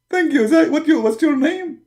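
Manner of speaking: 1 whiny prophet. Acted. Muhammad answers Zakir.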